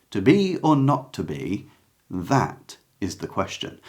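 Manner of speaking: THAT weighted, then a slight pause before "is the question"; stress on THAT. Shown as a demonstration. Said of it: "is the usual way you'll hear it".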